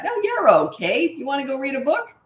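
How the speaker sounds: sing-song brightness that lets the moment pass; breezy reassurance. Shown as a demonstration. Parent to child after a tantrum, bright and unfussed. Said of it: "I sort of treat it like that".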